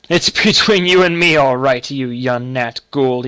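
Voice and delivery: laughing uncle, starting loud and settling down. A narrator's reading. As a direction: roar with amusement as you speak. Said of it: "he said, laughing".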